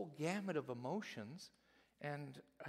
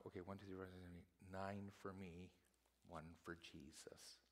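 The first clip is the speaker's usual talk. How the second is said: mock counting; 5 semitones lower, 12 dB quieter than usual. Mint leaves counting off tithe.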